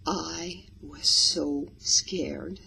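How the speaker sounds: slow, drawn-out scared delivery. Shown as a demonstration. Storytelling teacher demonstrating a slow scared line. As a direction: let each word hang as if frightened. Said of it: "the stress that we can feel in your voice".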